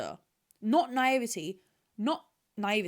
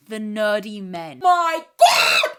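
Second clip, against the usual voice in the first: gushing; 14 dB louder, slower than usual. Real, not acted. Swooning to the audience over nerdy men, squealing.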